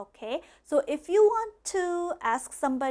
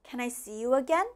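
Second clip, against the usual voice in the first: quicker, run the words together; faster; faster than usual. Shown as a demonstration. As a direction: say it at a brisker pace. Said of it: "A little bit faster".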